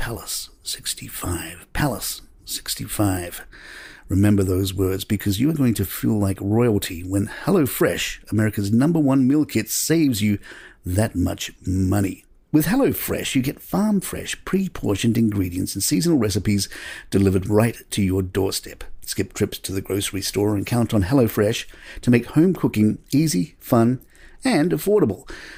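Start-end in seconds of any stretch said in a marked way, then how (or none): 0.0-3.4 quiet, slow whispering. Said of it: "I'm going to whisper some magic words to you".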